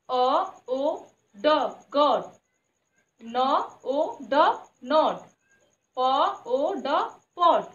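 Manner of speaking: each phonic sound said slowly, then the whole word; slow sound blending. Shown as a demonstration. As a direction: sound out every letter slowly like a phonics teacher. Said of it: "हम लोग इसको कैसे पढ़ेंगे".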